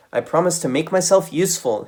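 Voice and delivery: put-on high, loud eager child voice; eager nephew. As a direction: plead like an excited little kid. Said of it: "he cried".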